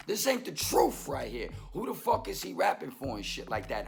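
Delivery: normal talking voice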